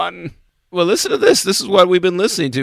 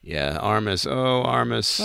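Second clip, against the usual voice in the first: very low, quiet monster growl; deep monster voice; 9 semitones lower, 9 dB quieter than usual. Pretend. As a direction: sink into a deep creature voice. Doing the Armus voice.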